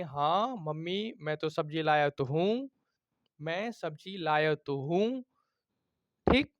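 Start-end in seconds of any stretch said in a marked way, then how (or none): 0.0-5.2 slow हाँ mummy, तो stressed; emphatic insisting. Shown as a demonstration. Child insists to mother vegetables were brought, emphatic. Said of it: "तो आप बोलेंगे".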